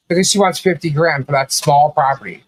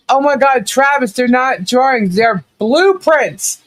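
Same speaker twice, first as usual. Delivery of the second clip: higher, slow, drawn-out disbelief; exasperated inner voice; 7 semitones higher, slower than usual. Retold or imitated. Retelling her thoughts about Travis, exasperated and slow. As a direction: spell it out as if to a slow child. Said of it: "And I'm thinking".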